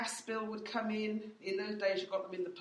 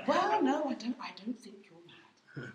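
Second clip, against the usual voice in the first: laughing; 2 semitones higher than usual. Retold or imitated. Pastor laughing at her question.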